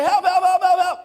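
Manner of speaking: light, laughing repeated help, help, help; half-laughing mock calls. Preacher mocking a drowning man's casual calls, laughing. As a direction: toss off the cries as a joke. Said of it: "You don't hear people say".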